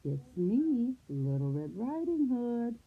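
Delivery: put-on high, drawn-out little-girl impersonation; little girl's voice. A narrator's reading. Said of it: "in his best little girl's voice".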